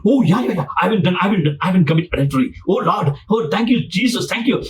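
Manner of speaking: high, relieved and eager; relieved excitement. Retold or imitated. Rich man thanking Jesus, high and gushing. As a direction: gush with relief. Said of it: "He was very excited".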